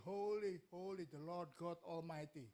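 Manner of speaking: loud proclamation, settling into a slow close; calling out. Acted. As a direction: proclaim it like a worshipping angel, drawn out. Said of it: "mereka berseru".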